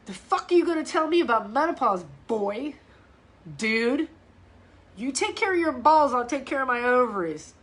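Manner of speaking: fast, heated retort at the TV guy; mock yell. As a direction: tell off the ad dude, fast and fired up. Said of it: "I scream".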